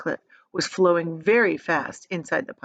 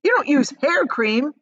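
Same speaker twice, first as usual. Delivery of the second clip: higher, louder scornful jab; Mike scoffing; 7 semitones higher, 6 dB louder than usual. A narrator's reading. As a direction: scoff at the silly label.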